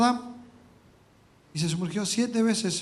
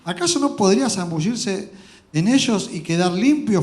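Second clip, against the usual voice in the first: furious; 7 dB louder than usual. Acted.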